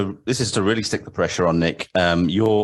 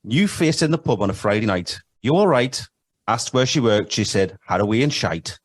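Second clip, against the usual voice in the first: put-on Geordie for a quiz question; Geordie accent. Shown as a demonstration. Quiz host reading lyrics aloud to the contestant, in Geordie accent. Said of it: "have to say this in the Geordie accent".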